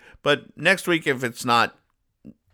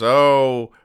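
excited legionnaire. Retold or imitated. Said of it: "he goes".

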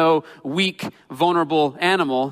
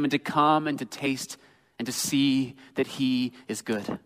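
tender invitation; 2 semitones lower, 5 dB quieter than usual. Acted.

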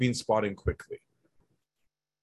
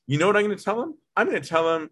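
higher-pitched mock indignant rant; worked-up indignation; 9 semitones higher, faster than usual. Offended person rehearsing a comeback to his brother, worked-up indignation. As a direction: act out winding yourself up to retort.

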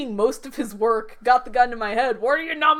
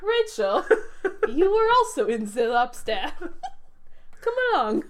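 mock Greek director accent, laughing through it; light Greek accent, giggling; 2 semitones higher than usual. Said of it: "spot-on Yorgos Lanthimos accent".

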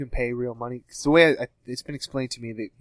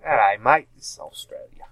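put-on Australian accent. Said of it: "my Australian accent".

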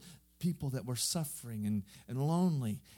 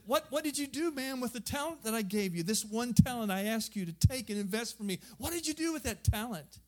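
stern master; 7 semitones higher than usual. Acted. Landowner confronts last servant.

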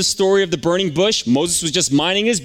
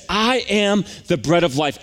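slow, stressed I AM; emphatic declaration. Retold or imitated. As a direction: declare "I am" slowly and with weight. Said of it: "it's an emphatic statement".

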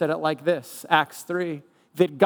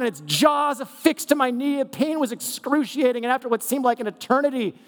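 hammed-up heroic tale; 4 semitones higher than usual. Dramatic made-up tall tale.

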